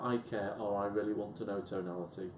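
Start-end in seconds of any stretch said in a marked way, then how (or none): 0.0-0.6 softer, lightly caring; a touch of quiet concern; caring tonality. Shown as a demonstration. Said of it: "one of the tonalities is about". 0.8-1.6 lower, softer interest; mild, quiet sincerity; interested tonality. Shown as a demonstration. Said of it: "one of the tonalities is about".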